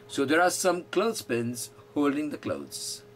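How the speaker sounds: very slow, every word spaced out; slow model sentence. Shown as a demonstration. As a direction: dictate it slowly for the class. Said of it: "model sentence".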